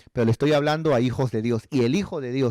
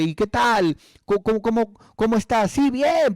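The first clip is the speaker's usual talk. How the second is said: higher-pitched friendly greeting; chatty church member; 6 semitones higher than usual. Retold or imitated. Two believers greeting each other at work, chatty. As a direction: act out a cheerful catch-up.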